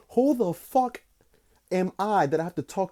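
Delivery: a high, incredulous yelp at himself; mock exasperated outburst. Comic telling himself off, high mock outburst. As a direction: squeak out the question in mock disbelief.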